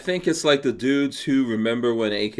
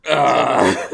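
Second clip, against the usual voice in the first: pained gasp; 3 semitones higher, 7 dB louder than usual. Real, not acted. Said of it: "brain freeze right now".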